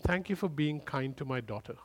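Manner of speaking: softly grateful; tender voice of God. Retold or imitated. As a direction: thank him gently. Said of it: "He said".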